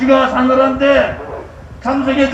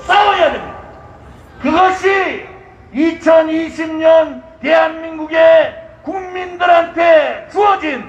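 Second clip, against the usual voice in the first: roaring rallying speech; 2 semitones higher than usual. Acted.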